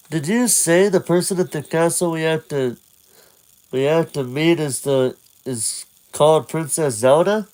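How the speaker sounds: lightly voiced young Link; a hint of a boy asking his fairy. Link asks Navi about the princess, lightly voiced. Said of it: "he talks to Navi".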